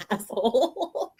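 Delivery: slow, drawn-out deadpan insult; mock insult. Answering a friend's brush-off with a slow insult. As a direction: drag it out dryly. Her reply to Chris's advice.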